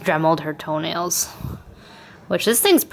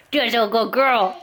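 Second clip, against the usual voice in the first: puppy voice; 3 semitones higher than usual. Real, not acted. Owner praising her puppy again, slower and higher. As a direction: stretch out the praise sweetly. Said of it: "I just can't stop".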